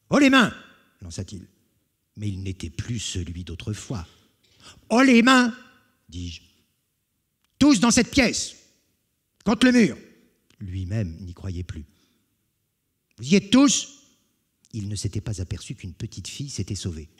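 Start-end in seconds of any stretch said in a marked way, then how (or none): 0.1-0.5 very loud, high shout; hold-up shout. Acted. Robber to the household, loud hold-up shout. 4.9-5.5 very loud, high shout; hold-up shout. Acted. Robber to the household, loud hold-up shout. 7.6-10.0 very loud, high shout; hold-up shout. Acted. Robber to the household, loud hold-up shout. Orders hostages. 13.2-14.0 loud check. Acted. Checks the hostages.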